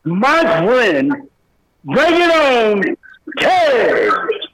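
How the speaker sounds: hyped wrestling announcer intro; wrestling promo. Pretend. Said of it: "in your best, uh, wrestling promo here".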